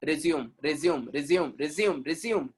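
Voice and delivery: resume repeated as ri-ZYOOM, slowly; mock the HRs saying resume as ri-zyoom; resume said like the verb, over and over; imitating wrong pronunciation. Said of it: "they call it resume".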